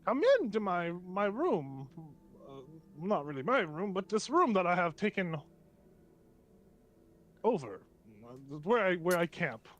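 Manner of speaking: lightly voiced gnome host; a hint of a halting little gnome; gnome Riven. Gnome invites strangers into his camp, lightly voiced. Game master plays the gnome.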